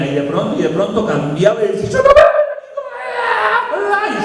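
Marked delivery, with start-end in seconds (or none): 1.9-4.2 high, slow mock crying wail; imitating crying man. A troubled man pleading with the pastor, high slow mock weeping. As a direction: stretch it out high like a man in tears. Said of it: "y lloraba".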